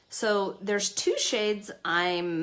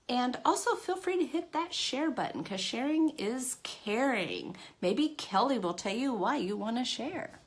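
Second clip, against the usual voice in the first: game show host; 6 semitones higher than usual. Shown as a demonstration. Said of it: "that sounded like a game show host".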